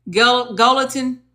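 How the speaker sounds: slow, broken "Gel-, gelatin" for guillotine; unsure, stretched "gelatin"; halting mispronunciation. Real, not acted. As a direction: feel out "gelatin" slowly, syllable by syllable. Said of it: "how you say it?".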